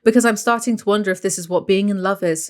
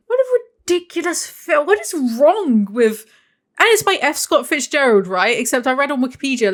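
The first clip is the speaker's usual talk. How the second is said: teary rant; 3 semitones higher than usual. Real, not acted. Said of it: "I've gone higher pitched".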